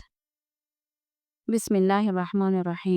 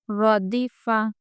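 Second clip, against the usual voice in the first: drawn out slowly syllable by syllable; slow model reading; much slower than usual. Shown as a demonstration. Teacher modelling the word to pupils, slowly. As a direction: stretch the word out for students. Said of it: "teacher models slow reading".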